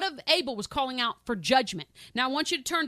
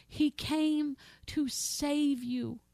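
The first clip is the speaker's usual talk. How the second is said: tender; 3 semitones higher, much slower than usual. Real, not acted. Repeated appeal.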